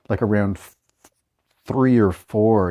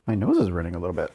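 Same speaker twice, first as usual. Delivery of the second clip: sniffling; 3 semitones lower, 4 dB quieter, faster than usual. Real, not acted. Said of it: "Sorry about the sniffling".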